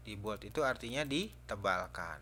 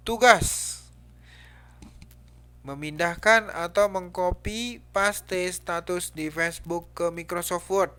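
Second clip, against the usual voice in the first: loud, high, forceful read-out of a title; angry exclamation; 7 semitones higher, 11 dB louder than usual. Shown as a demonstration. Teacher showing how an exclamation mark reads, angrily. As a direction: bellow it like an angry order. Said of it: "Itu bacanya marah berarti itu".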